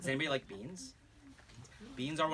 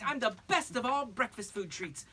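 bragging; 9 semitones higher, 5 dB louder than usual. Acted. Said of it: "She bragged".

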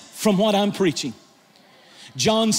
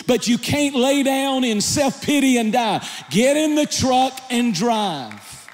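fiery preaching. Real, not acted. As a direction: preach it at full force to the church. Preaching at full force, shouting.

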